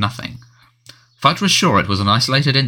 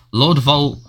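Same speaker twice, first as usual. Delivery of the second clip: a sharp, higher snarl on the forbidden name; 5 semitones higher than usual. A narrator's reading. Fudge snarling the name at the Prime Minister, higher and sharp. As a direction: bite the words out, irritated. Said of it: "snarled Fudge".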